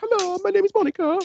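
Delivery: mocking the too-high wife impression in loud falsetto; exaggerated high pitch. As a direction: squeal it very high, like a caricatured wife. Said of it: "make your wife sound higher pitched than she is".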